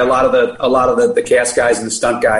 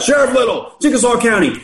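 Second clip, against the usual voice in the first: retold scream; 8 semitones higher than usual. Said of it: "he screams out".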